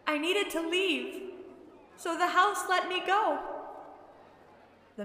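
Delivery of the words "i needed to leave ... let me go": put-on high, earnest girl's voice; forsaken girl. A narrator's reading. Lost girl explaining why she left, high voice. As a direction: explain yourself as a girl, pitch raised.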